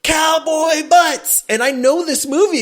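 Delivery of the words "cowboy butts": slow, high, drawn-out; loud, drawn-out cowboy line; slow knowing quote. Retold or imitated. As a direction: stretch each word as a test. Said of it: "And he goes".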